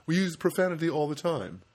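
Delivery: lightly put-on Vermont accent; made-up Vermont accent. Comedian as a Vermonter owning up to profanity, tentative mock Vermont accent. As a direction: fake a Vermont accent without knowing it. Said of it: "I don't know how Vermont accent is".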